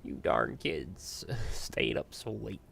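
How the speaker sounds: a hint of a slow, grumpy elder; grumbling old-timer. Mimics someone grumbling at young people.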